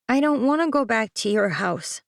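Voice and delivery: a son refusing his mother, hesitant; child voice, reluctant; young boy. Acted. The speaker's child voice.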